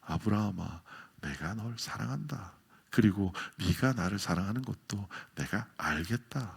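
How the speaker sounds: a soft, tender call of love. Shown as a demonstration. God calling Abraham tenderly, not twice, but softly. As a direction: call the name softly, as if saying I love you. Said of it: "두 번 부르는 게 아니고요".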